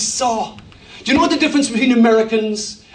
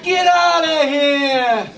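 New York Jewish; 3 semitones higher, much slower than usual. Pretend. Preacher imitating Jesus as a New York Jew, shouting. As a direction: bark it like a New Yorker. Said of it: "like a New York Jew".

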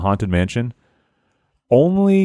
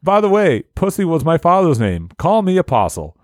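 a bit higher, playful character read; mildly hammed-up correction of his name; a hint of a sheepish fan, pitched up; lightly voiced eager character; 6 semitones higher than usual.

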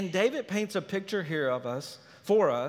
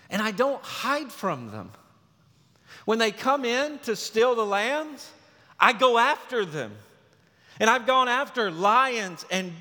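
impassioned defiance; 4 semitones higher, 3 dB louder than usual. Retold or imitated. David boasting of killing lions, bears.

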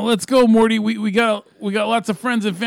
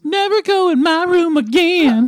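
higher, louder bratty snarl; angry Summer; 8 semitones higher, 5 dB louder than usual. Acted. Sister warning Morty off, higher and snarled.

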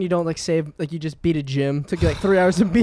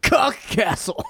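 grand slow voice; 7 semitones higher, slower than usual. Acted.

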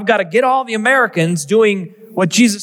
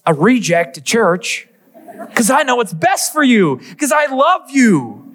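mini sermon to son; 3 semitones higher than usual. Retold or imitated. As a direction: preach at the boy, rising to a passionate close. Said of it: "I'm going into my sermon".

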